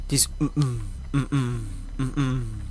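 humming the pounding beat; imitated pounding noise. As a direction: hum a dull thudding rhythm. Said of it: "ich hab's jetzt scheiße nachgemacht".

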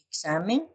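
"Examen" stressed on the middle "xa"; stress on penultimate syllable. Shown as a demonstration. Teacher giving an example of grave words, "Examen" stressed on "xa". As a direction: lean on "xa" in "Examen", then rise. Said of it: "la elevación de la voz".

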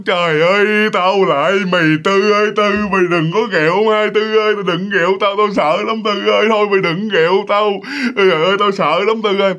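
imitating a terrified, wailing plea; retold panicked begging, half crying; tearful pleading. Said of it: "vừa khóc, vừa kiểu như nói cho ông Tư cà rỡn nghe".

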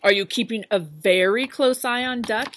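lightly voiced worried farmer; Farmer Brown. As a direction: press him about Duck.

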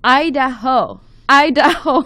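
mild mock yell, read from a letter; playful pretend shout, laugh creeping in. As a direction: call it out half-heartedly, rising on the repeat. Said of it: "I yelled".

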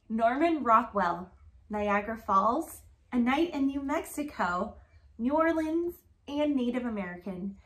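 rhythmic picture-book read-aloud; reading to children. Acted. Reading a rhyming alphabet book to Grace, sing-song read-aloud.

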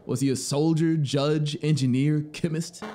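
the traveler can't believe it; traveler's astonished questions. A narrator's reading.

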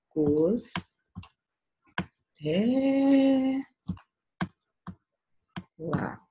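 "é" held long and high between separate "cos-" and "lá"; ударный слог. Shown as a demonstration. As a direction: split "cos-, é, lá", stretching "é" loudest. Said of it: "o som mais forte é o té".

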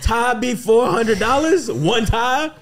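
put-on high, loud grumbling old man. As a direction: complain like a cranky grandpa. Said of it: "All right, Paw Paw Tray".

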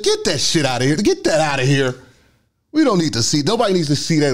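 high, indignant mock order; mean judge. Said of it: "I had a mean judge".

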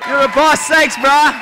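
loud high puppet thanks. Acted. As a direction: belt it out like a cheeky puppet.

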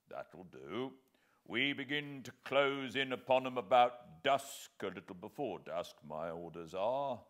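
a hearty army sergeant reckoning aloud. Acted. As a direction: bluff soldier's voice. Sergeant voiced in the story.

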